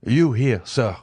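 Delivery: startled exclamation. A narrator's reading. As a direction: blurt it in shock at the abbé. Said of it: "he exclaimed".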